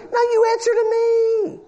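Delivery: high, firm voice of God; God rebuking. Acted. Preacher voicing God, rebuking.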